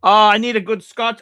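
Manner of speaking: ordinary talk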